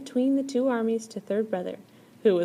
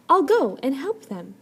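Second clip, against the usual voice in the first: higher, louder eager offer; eager helper; 6 semitones higher, 8 dB louder than usual. A narrator's reading. Third brother reassures his baby brother, eager. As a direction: jump up to help at once. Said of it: "said third brother quickly".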